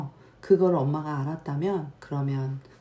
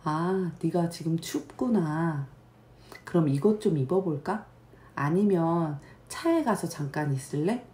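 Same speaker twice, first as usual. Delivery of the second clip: gentle mom. Shown as a demonstration. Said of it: "그러면 또 엄마는".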